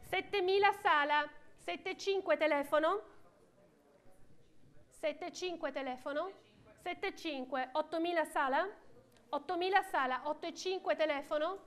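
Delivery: brisk auction calling; auctioneer. Real, not acted. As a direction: rattle off the bids like an auctioneer. Auction bidding calls. (banditore d'asta)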